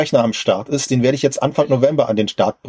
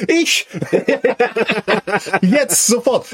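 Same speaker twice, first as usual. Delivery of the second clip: eager; 7 semitones higher, much slower than usual. Real, not acted. Jokingly volunteers, very high.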